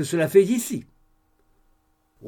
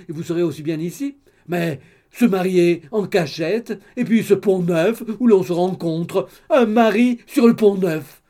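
the gossip mother, louder and excited; 3 semitones higher, 7 dB louder than usual. Acted. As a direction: blurt it all out like a chattering busybody. Madame d'Alin scolds the bride. (la mère bavarde, plus fort et excitée)

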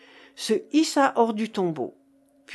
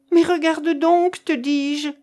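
high, exasperated shout; loud insistence; 7 semitones higher, 6 dB louder than usual. Acted. Marcof insists Keinec look at the coffin, loud insistence.

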